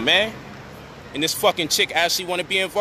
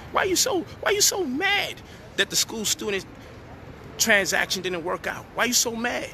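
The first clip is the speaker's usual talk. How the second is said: taunting; 5 semitones higher than usual. Real, not acted. Taunting the woman mockingly.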